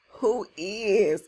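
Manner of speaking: "is" punched and drawn out; stress on "is". Shown as a demonstration. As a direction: lean hard on "is". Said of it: "Look at that emphasis on that is".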